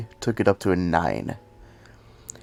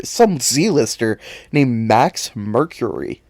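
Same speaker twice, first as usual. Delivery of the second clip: slow, sneering dismissal; scornful; 4 dB louder, slower than usual. Real, not acted. Fan mocking an obscure hero, slow scornful sneer. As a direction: drag each word out with contempt. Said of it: "that small outburst".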